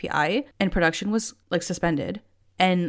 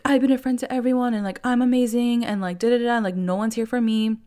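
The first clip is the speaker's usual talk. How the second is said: higher, quicker mock whine; mocking Lisa; 5 semitones higher than usual. Vlogger mocking Lisa's complaint at the table, higher mock whine. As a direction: parody a self-pitying friend's whine.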